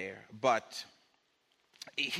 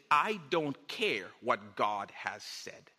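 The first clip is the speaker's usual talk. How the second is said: slow defiant quote; 5 semitones lower, slower than usual. Acted. Pointed slow quote to congregation.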